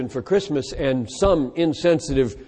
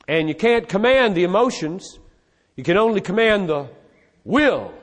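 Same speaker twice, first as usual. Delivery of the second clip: quoting the argument; 4 semitones higher than usual. Retold or imitated. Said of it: "One argument said".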